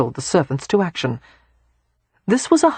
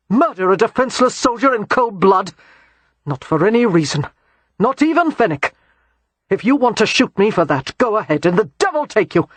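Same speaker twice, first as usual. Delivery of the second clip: heated defense; 3 semitones higher than usual. Acted. Christopher defends himself, heated.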